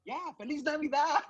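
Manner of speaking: half-laughing greeting; sheepish laughing. Retold or imitated. Retelling greeting the father.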